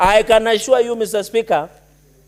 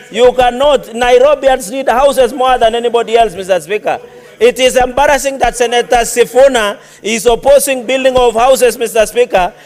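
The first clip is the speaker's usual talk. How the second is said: loud, indignant, pitched up; heated shouting; 2 semitones higher, 6 dB louder than usual. Real, not acted. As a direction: shout your case over the heckling. Heated speech against heckling.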